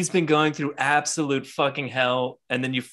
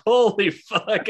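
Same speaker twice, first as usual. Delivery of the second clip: stunned drawn-out reaction; 8 semitones higher, 5 dB louder, much slower than usual. Retold or imitated. Reacting to a horrifying scene.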